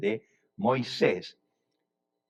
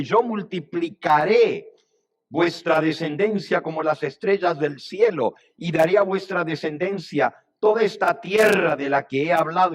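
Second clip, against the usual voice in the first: raised, loud declamation with stretched key words; impassioned promise; 4 semitones higher, 4 dB louder than usual. Acted. Moses reminding God of his oath, impassioned. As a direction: proclaim it grandly, drawing out "multiplicaré".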